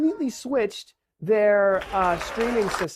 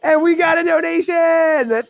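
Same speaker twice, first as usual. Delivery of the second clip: excited; 7 semitones higher, 5 dB louder than usual. Real, not acted. Announcing a donation.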